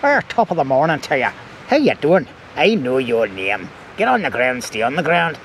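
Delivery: joking attempt at an Irish accent. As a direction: put on a hammed-up Irish accent. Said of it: "Does that sound Irish?".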